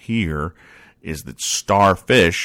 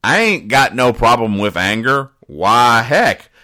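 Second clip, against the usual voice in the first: raised, louder indignant country voice; indignant hillbilly; 4 semitones higher, 4 dB louder than usual. Acted. Snuffy insists to his neighbor he has no anger problem, indignant. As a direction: protest like a hot-headed hillbilly.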